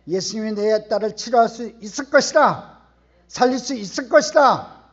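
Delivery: emphatic conviction. Acted. Preacher voicing Jairus's faith that Jesus can heal, emphatically. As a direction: proclaim it with mounting force.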